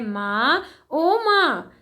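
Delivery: put-on sick boy groaning for his mother; groaning cry. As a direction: cry out to mother in pain, mildly acted. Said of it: "Mohan जोर से कराह कर कहता है".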